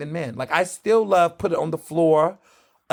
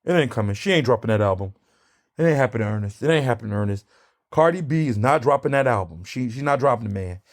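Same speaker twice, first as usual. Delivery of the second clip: a lightly voiced lower imitation of his accent; Mister Hamilton's accent; 6 semitones lower, faster than usual. Vlogger imitating Mister Hamilton's doubtful accent. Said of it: "or in his accent, boss".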